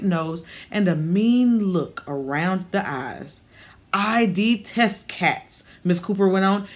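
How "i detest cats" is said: cranky landlady scorning the cat, slowly and sourly; slow, disdainful old woman. Acted. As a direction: drag out the contempt slowly. Grumpy old neighbour voiced.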